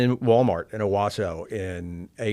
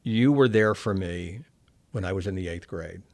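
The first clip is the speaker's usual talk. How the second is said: choked up; 2 semitones lower than usual. Real, not acted. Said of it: "I'm gonna get choked up".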